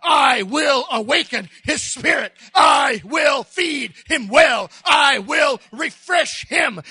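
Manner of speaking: God's promise, slow and firm; God speaking slowly and firmly to the man who wants to die; slow, earnest voice of God. Acted. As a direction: lay each promise down slowly. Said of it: "But God is saying".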